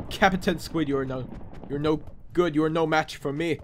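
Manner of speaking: badly faked pirate taunt; a hint of buccaneer; failing pirate voice. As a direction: taunt the enemy as an unconvincing pirate. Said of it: "trying to talk in a pirate voice, yet I'm, I'm just, like, failing".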